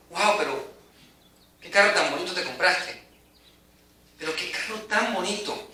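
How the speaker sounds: amazed admiration. Retold or imitated. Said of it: "Es como cuando tú dices".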